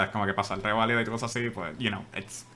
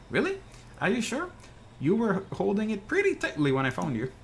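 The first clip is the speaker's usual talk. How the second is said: fisherman character; 3 semitones higher than usual. Acted. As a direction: play the chatty fisherman who fished him out.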